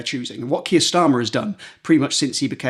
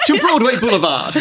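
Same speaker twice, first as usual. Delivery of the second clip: laughing; 8 semitones higher, 3 dB louder than usual. Pretend. Joining joke, laughing.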